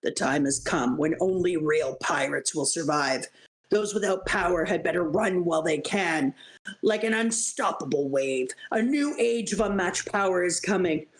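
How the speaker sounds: low, grand villain speech; ominous proclamation. Acted. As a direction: announce doom to the weak. Villain proclaiming a new era.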